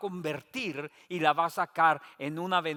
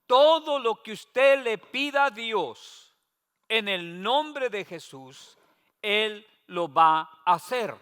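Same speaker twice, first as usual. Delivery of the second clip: fervent pastor; 3 semitones higher, 7 dB louder, slower than usual. Retold or imitated. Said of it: "Me dijo".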